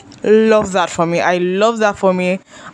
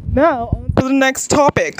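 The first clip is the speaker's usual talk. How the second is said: news anchor voice; 4 semitones higher than usual. Pretend. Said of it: "American news anchor voice".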